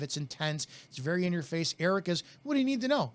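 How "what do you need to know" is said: laid back. Retold or imitated. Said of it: "It's very laid back".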